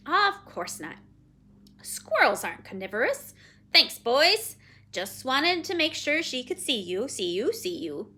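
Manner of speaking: loud and matter-of-fact, with repeats; brisk, dismissive Penelope. Acted. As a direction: dismiss the worry briskly and loudly. Figure of Penelope.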